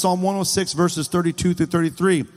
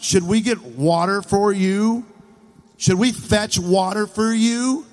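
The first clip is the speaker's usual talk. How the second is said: mildly raised, exasperated questions; a touch of acted anger, pitched up; mad; 4 semitones higher than usual. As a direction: put the insult as frustrated mockery. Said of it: "he was mad".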